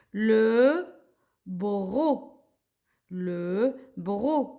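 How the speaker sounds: drawn-out "Le bro", ending on the vowel; teacher sounding out each syllable; silent final C. Shown as a demonstration. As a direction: stretch "bro" slowly, no C. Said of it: "Le C, je le prononce pas".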